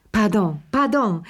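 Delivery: put-on high, eager, fluttering older hostess; a fussing old lady who won't let guests go; gushing Madame Pelou. A narrator's reading.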